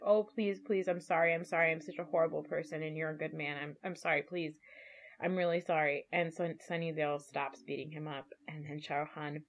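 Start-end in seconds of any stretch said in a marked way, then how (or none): 0.0-6.0 a touch of begging, softer, trailing down; mock pleading. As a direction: plead for his life on his knees, understated. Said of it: "he's like".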